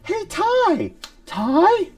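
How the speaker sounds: high, slow cartoon creature voice; squeaky little dino asking for food; old Agumon voice. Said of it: "I like Tom Phan's Agumon because it's just like".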